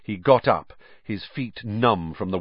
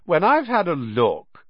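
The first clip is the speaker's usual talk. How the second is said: taunting; 9 semitones higher than usual. A narrator's reading. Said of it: "waving the diary tauntingly".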